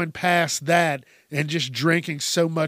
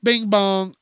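put-on higher and louder, teasing the nonsense sounds kids make; mock kid noises; 4 semitones higher, 5 dB louder than usual. Mocking the noises kids make now, half-joking and higher. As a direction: toss it off like silly kid slang. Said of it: "just making noises".

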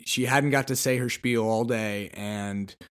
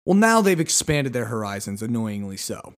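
usual speaking voice

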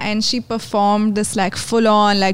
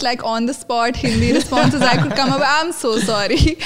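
laughing. Real, not acted.

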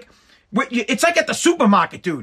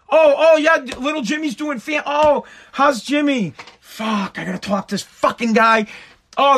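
fake-polite to fed up. Fake politeness turning to irritation.

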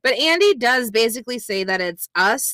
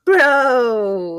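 higher, louder stoner drawl; 4 semitones higher, 4 dB louder than usual. Acted. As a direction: say it like a dazed stoner. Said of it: "I like your stoner".

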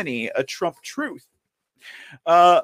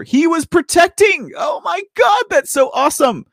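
higher, louder, thrilled; gushing, raised excited voice; excited shout; 11 semitones higher, 3 dB louder than usual. Real, not acted. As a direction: shout it out in delight. Excited about the sheriff.

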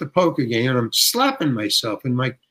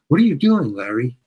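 mildly urgent imitation of the director; retold question with a touch of alarm, a little raised; urgent, troubled. Director interrupting an actor's poker game, mildly urgent and troubled. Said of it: "with urgency and trouble".

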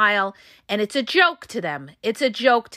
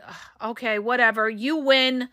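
tired and exhausted. Acted. Worn-down partner gives in to a narcissist, acted exhaustion. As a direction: sigh it out as if too drained to argue. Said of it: "you're just tired and exhausted".

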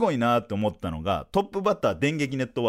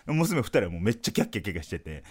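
normal talking voice

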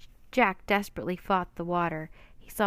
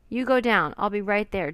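shouting; 6 dB louder than usual. Acted. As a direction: yell it to your sister over the storm. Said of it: "Jack shouted".

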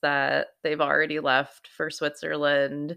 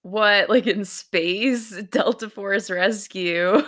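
mock confused surprise; 4 semitones higher, 4 dB louder, slower than usual. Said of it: "Aloe's like".

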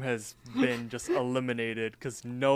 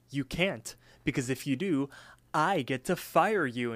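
bragging boss; 2 semitones higher than usual. Retold or imitated. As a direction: lord it over them in playful retelling. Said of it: "he goes on to brag".

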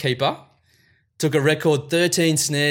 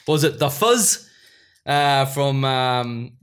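put-on Kiwi accent; slower than usual. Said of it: "Don't know why I did a Kiwi accent there".

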